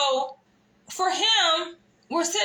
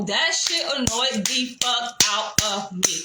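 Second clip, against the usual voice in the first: real annoyance; 3 semitones lower than usual. Real, not acted. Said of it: "I'm speaking this way 'cause I'm clearly fucking upset".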